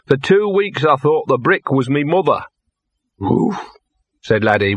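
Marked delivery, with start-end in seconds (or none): 0.1-2.4 higher, maudlin dog voice; plaintive drunken confession; tearful self-pity. Acted. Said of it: "tears dripped off his nose". 3.2-3.6 high woof of puzzled sympathy; simple dog's kindly yelp; Laddie. Acted. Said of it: "with uncomprehending sympathy".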